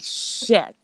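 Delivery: breathless whispered-style mock dismay; mouthed curse. Mocking the streamer's face when she arrived, whispered curse. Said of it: "you were like".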